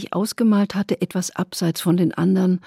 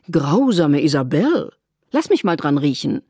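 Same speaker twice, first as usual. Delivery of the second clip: pleading; 3 semitones lower, 4 dB louder than usual. A narrator's reading. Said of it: "Flehend umarmte sie William".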